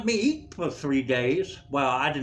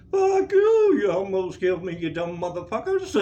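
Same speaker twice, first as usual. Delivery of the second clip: mock furious cursing; 2 semitones higher, 5 dB louder than usual. Patient cursing those who almost killed him, mock fury.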